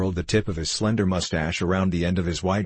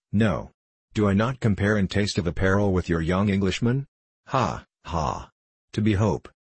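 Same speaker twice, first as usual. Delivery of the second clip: a hint of a self-satisfied Frenchman; lightly accented French gambler, showing off his refinement; touch of French accent; lightly voiced French gambler.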